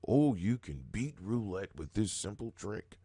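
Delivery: mock hype of a gimmick seller, scoffing; mocking quote. Mocking the online roulette tricks he calls dumb, scoffing. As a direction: sell the silly trick with a sneer. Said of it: "just the dumbest idea of".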